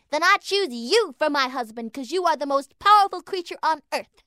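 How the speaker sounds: eager little mouse. A narrator's reading. Lana mouse speaking.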